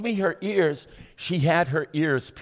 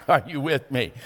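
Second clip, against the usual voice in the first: laughing; 4 semitones lower, 5 dB quieter than usual. Real, not acted. Laughing after a joke.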